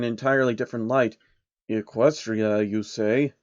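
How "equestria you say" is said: put-on slow, slightly lower puzzled old man; a hint of a sly old man, confused; slow and baffled; lightly voiced old schemer. Soros voiced.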